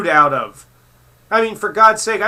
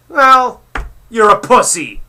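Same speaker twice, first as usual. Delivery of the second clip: yelled high and loud in fury; furious yell at the vegans; angry shout; 7 semitones higher, 9 dB louder, slower than usual. Real, not acted. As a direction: blast the insult at them. Ranting at vegans.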